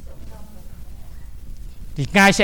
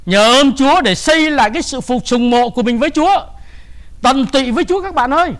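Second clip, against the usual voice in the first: preaching exhortation; 5 semitones higher, 4 dB louder than usual. Acted. Exhorts the congregation.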